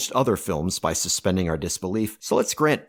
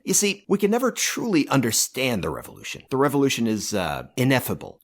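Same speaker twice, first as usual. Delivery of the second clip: grandiose tyrant proclaiming to comrades; pompous dictator, self-glorifying bluster; ranting dictator speech; 2 semitones higher than usual. Acted. Mock dictator rant continues.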